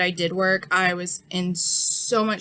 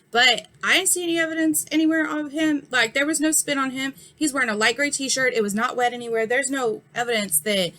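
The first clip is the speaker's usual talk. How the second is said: raised, higher indignant comeback; heated retort; 4 semitones higher than usual. Retold or imitated. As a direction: push back hard at the cop. Retorting to the cop.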